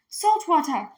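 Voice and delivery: high, loud cry of surprise; surprised exclamation. Acted. Girl tasting the stream, surprised exclamation. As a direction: spit it out and exclaim. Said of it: "Minley exclaimed".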